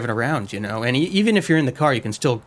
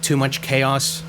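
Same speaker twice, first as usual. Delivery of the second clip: slow, incredulous mock repeat; much slower than usual. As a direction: drag it out in disbelief. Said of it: "better way to phrase that".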